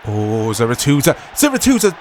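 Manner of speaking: exclaiming. Real, not acted. Dramatic reaction to the game.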